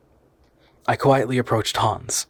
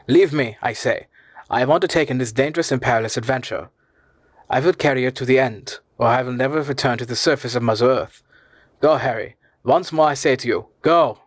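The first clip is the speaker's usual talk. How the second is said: harsh and menacing; 3 semitones higher than usual. Acted. Uncle ordering Harry to leave him, harsh and menacing. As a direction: drive him away, harder each time. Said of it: "became harsh and menacing".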